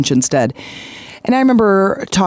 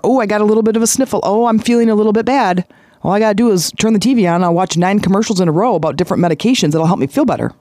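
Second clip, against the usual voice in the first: higher, rushed whiny self-pity; mock hypochondriac; 4 semitones higher, faster than usual. Mocking himself as a hypochondriac to viewers, rushed whiny parody. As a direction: parody a worrier rushing to meds.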